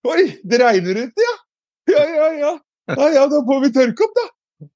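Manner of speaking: high-pitched, easygoing imitated grandma; kindly grandmother. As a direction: brush off the mess kindly, in a high voice. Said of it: "Andre møtte meg med godhet". (etterlignet snill bestemor, lys stemme)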